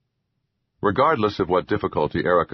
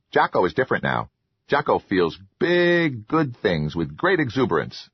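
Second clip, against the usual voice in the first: grateful troll, lightly voiced; eager little troll voice; 3 semitones higher than usual. Troll Jocko speaks.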